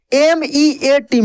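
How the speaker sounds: letters spelled out slowly, one by one; teacher dictating letters slowly; slow spelling. Shown as a demonstration. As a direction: spell it out for the class, unhurried. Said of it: "teacher spells word letter by letter".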